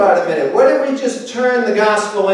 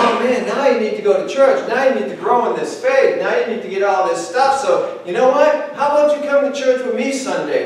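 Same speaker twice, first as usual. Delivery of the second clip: mock eager invite to church; eager invitation. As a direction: sell the church with a grin. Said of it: "we get more excited than they do".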